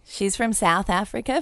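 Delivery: unvoiced aside whisper. Real, not acted. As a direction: whisper it as a clarification. Repeating co-host's accent.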